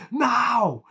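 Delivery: high-pitched acted "no"; high exclamation in a retold scene; mock cry. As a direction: cry it out high, imitating the climber. Retold cry from rooftop chase.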